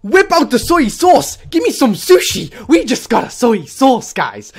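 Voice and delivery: high, loud joyful yelling; excited shout. Real, not acted. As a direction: shout it out, thrilled. Catching Suicune excitement.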